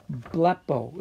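teacher sounding out "Blepo"; "Blepo" sounded out for students; Greek word blepo. Shown as a demonstration. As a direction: say "Blepo" as PLEP-oh, slow with a rising end. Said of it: "what does blepo mean".

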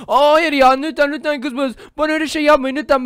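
put-on boy begs the girl not to swap him with a dog; mock begging. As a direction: plead desperately but playfully.

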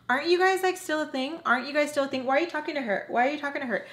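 high, teasing pointed questions; mock stirring. Strawberry needling Skillet and Squidward, mock teasing. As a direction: poke at them with fake innocence.

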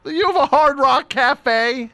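high disbelieving squeak; can't believe it, voice jumps up; incredulous. Real, not acted. Disbelief at underwater restaurant.

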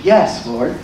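low-pitched, accepting yes. Retold or imitated. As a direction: affirm it with settled faith. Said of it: "her response is one of affirmation".

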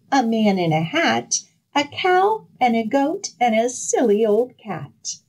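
high, sing-song and giggly; gleeful gingerbread man. Acted. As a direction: laugh and sing it, very pleased. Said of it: "he began to laugh and sing".

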